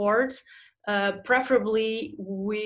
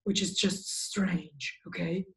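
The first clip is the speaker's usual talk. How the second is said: muffled, dull sound, as if buried in pillows; muffled demo; 3 semitones lower, 6 dB quieter than usual. Shown as a demonstration. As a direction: show how a room full of cushions deadens the voice. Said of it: "make the sound sound like this".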